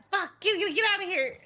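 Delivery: high, loud shooing yell. Real, not acted. Streamer shooing the cameraman away, loud and high. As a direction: chase him off, half laughing.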